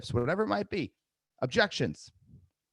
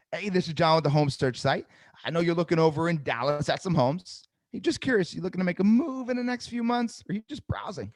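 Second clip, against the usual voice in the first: much higher, varied pitch with pauses; lively higher sales pitch with voice fluctuation; with tonality; 5 semitones higher than usual. Shown as a demonstration. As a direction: sell it with tonality and empathy. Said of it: "Do you hear the tonality?".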